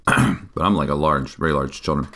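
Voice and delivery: throat clogged, coughing; talking through a cough; coughing fit. Real, not acted. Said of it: "I'm sorry I'm coughing so much".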